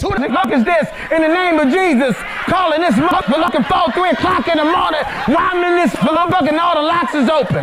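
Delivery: laughing, shouting grandma woken at night; angry grandma. Retold or imitated. Grandma cursing at a 3 a.m. caller, laughing shout. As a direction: yell into the phone half-laughing.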